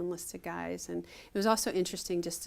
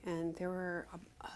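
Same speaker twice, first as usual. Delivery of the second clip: hushed whisper; 7 dB quieter, slower than usual. Real, not acted. Confessing her small-town past to the interviewer, in a slow whisper. Confiding an awkward memory.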